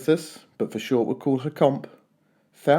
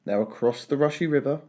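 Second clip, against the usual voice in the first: ordinary delivery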